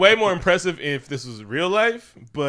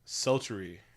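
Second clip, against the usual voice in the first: softer, slow teasing purr; mock sultry; 6 dB quieter, slower than usual. She teases him while slow dancing, mock sultry and soft. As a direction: play a hammed-up seductress. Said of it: "and she was like".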